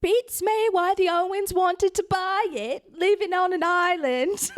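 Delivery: high comic housewife, puzzled; high-voiced housewife. Mrs. Rogers puzzled by the Owens buying it, high comic voice. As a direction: pitch it way up in a put-on character voice.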